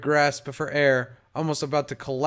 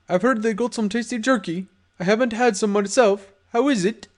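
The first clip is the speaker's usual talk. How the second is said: a lightly voiced smooth gangster; friendly but menacing, pitched up; tough guy voice; 7 semitones higher than usual. Black voiced in dialogue.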